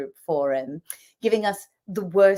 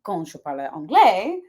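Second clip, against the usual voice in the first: speaking French; 3 semitones lower than usual. Shown as a demonstration. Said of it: "when I speak French".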